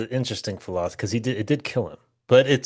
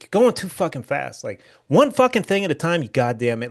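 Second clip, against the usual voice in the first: mock angry yell; 5 semitones higher, 3 dB louder than usual. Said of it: "I'm getting mad at it".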